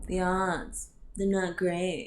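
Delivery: slow, mocking, passive-sounding delivery. Critiquing how a doctor talks to a patient's family; mocking a doctor's words.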